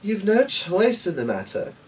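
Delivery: high, firm, repeated insistence; insistent daughter. A narrator's reading. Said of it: "Eleanor repeated".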